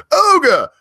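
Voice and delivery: shrill high British yelp of Ogre; British accent. Retold or imitated. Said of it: "I can hear the British right now".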